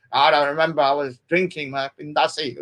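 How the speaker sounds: put-on lightly slurred drunk voice; a hint of a hazy drunk excuse; town drunk. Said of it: "He was so drunk".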